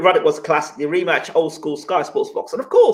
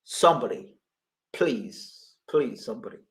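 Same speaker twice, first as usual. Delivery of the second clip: despairing plea; 7 semitones lower, 9 dB quieter than usual. Real, not acted. Despairing plea about a viewer.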